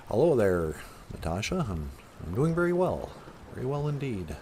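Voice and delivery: lightly done presidential voice; measured politician impression, rising in pitch; a hint of a statesman's cadence; Barack Obama. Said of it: "How come you sound like Barack Obama".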